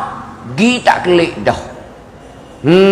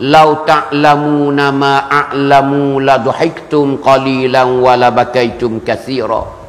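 slow, measured Arabic recitation; hadith recitation; 3 semitones lower, slower than usual. Real, not acted. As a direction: recite the Prophet's words slowly, syllables drawn out. Quoting the Prophet's Arabic hadith.

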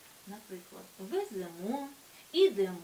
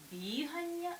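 бігання stressed on first syllable БІ; stress on stem; 4 semitones higher, slower than usual. Shown as a demonstration. Teacher giving the exception, бігання stressed on first syllable БІ. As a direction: lift the БІ in бігання. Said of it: "цей же наголошений суфікс".

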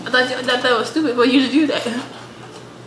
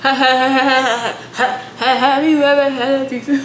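laughing. Real, not acted. Laughing through his question.

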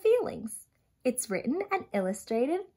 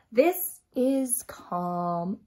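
calm and slow; 5 semitones lower, much slower than usual. Acted. Calm page read slowly.

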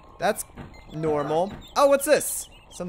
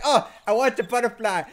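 greedy mantis; 3 semitones higher than usual. Retold or imitated. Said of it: "He's like".

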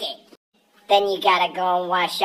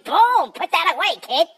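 mock outburst; 6 semitones higher than usual. Mock shock at the sight.

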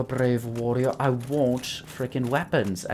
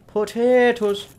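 1 excited high call; 11 semitones higher, 6 dB louder, slower than usual. Pretend. Calling out enemies.

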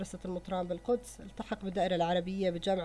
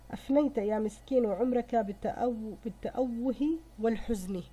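poem recitation. Shown as a demonstration. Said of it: "يقول في البيت السادس".

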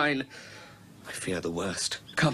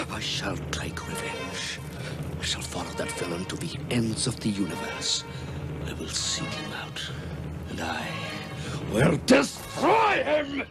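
vengeful anger building; 2 semitones higher than usual. Acted. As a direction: start hushed, explode on the last words. Calm down, my brother Ram.

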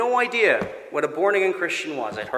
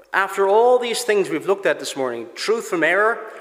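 loud, raised, slowing on we are of God; forceful preaching; 5 semitones higher, 6 dB louder than usual. Acted. Pastor to church recapping the morning, full force preaching. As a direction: drive the text home from the pulpit.

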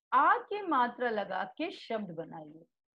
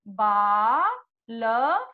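drawn-out word; 3 dB louder, much slower than usual. Shown as a demonstration. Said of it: "तो आप क्या लिखोगे?".

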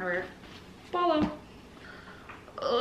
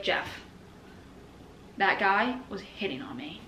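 whispered gossip; 2 semitones lower, 7 dB quieter, slower than usual. Retold or imitated. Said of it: "I'd be like".

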